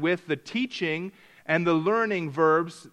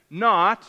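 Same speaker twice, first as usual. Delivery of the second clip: "not" said louder, set apart; stress on not; 4 dB louder than usual. Shown as a demonstration. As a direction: land hard on "not". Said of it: "the negative".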